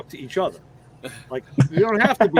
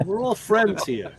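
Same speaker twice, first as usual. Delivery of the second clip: mobster voice; slower than usual. Retold or imitated. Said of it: "Jewish mobster".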